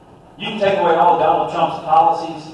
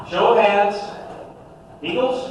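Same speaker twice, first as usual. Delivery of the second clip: calling out to crowd; 5 semitones higher than usual. Real, not acted. Show of hands poll.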